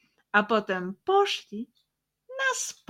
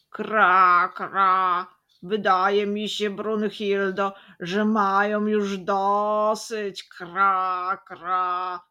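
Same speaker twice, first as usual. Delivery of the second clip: louder cawing crow with croaked kra; 7 dB louder, slower than usual. Acted. Crow speaking to her sister, cawing loudly. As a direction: caw the words like an old crow. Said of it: "powiedziała pierwsza".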